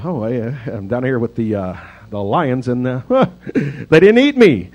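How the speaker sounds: casual, cocky, a bit hammed-up; Jeff Goldblum impression. Preacher imagining Daniel chilling with the lions, mock cool. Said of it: "that's a terrible Jeff Goldblum".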